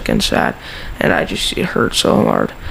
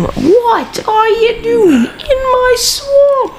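Shrek impression; much slower than usual. Friend does Shrek to his buddy, slow ogre growl. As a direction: drag it out like an ogre guarding his swamp. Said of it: "What was that?".

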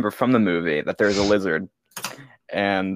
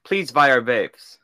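slow pleading ad read; mock commercial plea; mock ad pitch; 2 semitones higher, slower than usual. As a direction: plead like a cheesy vape ad. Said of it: "the next one's like".

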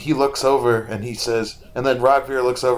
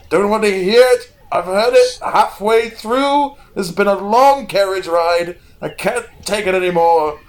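much higher, much louder exasperated yell; furious shouting; 8 semitones higher, 6 dB louder than usual. Acted. Tall lanky brother screaming at the seer to shut up, furious. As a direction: snap completely, screaming him down. Rhaegal yells at Rogvir, glove thrown.

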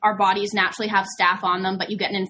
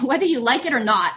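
chuckling through the words; amused laughter mid-sentence; laughing; 3 semitones higher than usual. Real, not acted. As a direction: laugh as you say it. Laughing through a self-quote.

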